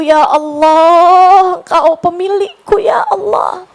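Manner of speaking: pleading prayer. Retold or imitated. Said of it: "saya bilang".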